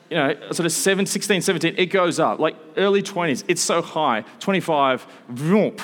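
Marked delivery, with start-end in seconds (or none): 5.3-5.8 short swooping "vroom" noise; a quick vocal whoosh for a line shooting up; imitated vroom. Preacher tracing a soaring graph for the congregation, imitated vroom.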